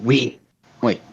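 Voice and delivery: low, very slow villain voice; drawn-out, ominous self-introduction; Null. Acted. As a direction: stretch every word out low. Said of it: "showed up like".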